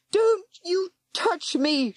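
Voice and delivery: high, slow defiant scream. Acted. Girl screaming at the warlock, defiant. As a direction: push him off with your voice. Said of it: "she screamed".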